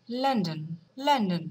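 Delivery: লন্ডন said the British way, as a Londoner would; লন্ডন as London people say it; British pronunciation. Shown as a demonstration. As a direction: give লন্ডন a London accent. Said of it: "লন্ডনের people, তারা এটাকে বলবে".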